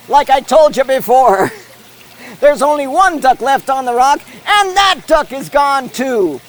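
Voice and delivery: brisk sportscaster call of the race; live play-by-play. Acted. Commentator calling the fountain race live.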